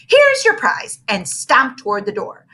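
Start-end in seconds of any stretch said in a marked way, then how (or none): 0.1-1.0 high sharp snap at the class; a teacher snapping at the kids; snapped. Acted. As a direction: bite the words off, annoyed. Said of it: "she snapped".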